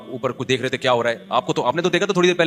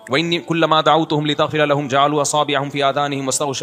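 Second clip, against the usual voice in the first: Quran recitation. Acted. Preacher reciting Noah's complaint to God, measured recitation. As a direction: recite from memory in an even, measured flow.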